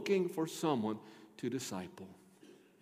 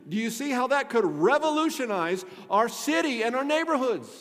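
raised, insistent preacher's voice; emphatic preaching; 9 semitones higher, 10 dB louder than usual. Real, not acted. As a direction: drive each point home to the congregation. Preaches at full force.

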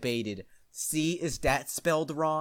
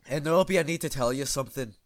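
very serious voice; faster than usual. Acted. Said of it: "he said in a very serious voice".

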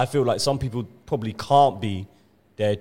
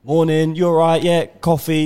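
cheery work greeting; 5 semitones higher, 5 dB louder than usual. Retold or imitated. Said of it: "they're all like".

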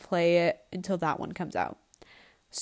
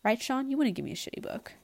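usual speaking voice

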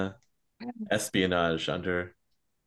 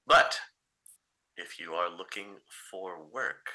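smooth fixer voice. Acted. GM voices Mister Nemo on phone.

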